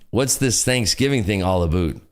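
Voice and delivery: mock Canadian, "about" as "aboot"; lightly faked Canadian question; bad Canadian accent. Streamer imitating Canadians puzzled by Thanksgiving, bad Canadian accent. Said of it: "has a Canadian accent".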